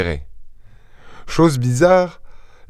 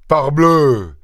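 mild higher-pitched outcry; exclamation; 4 semitones higher than usual. A narrator's reading. Farmer reacting to the stranger, exclaiming. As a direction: cry it out in exasperation, without yelling. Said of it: "s'écria le fermier".

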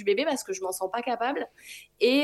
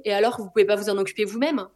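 annoyed nurse; 5 dB louder, faster than usual. Retold or imitated. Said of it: "Je lui dis".

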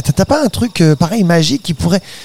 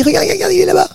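excited; 13 semitones higher, faster than usual. Acted. Spotting a little dinosaur.

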